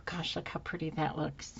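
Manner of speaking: soft unvoiced whisper. Real, not acted. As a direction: hush it out admiringly. Admiring craft, whispered.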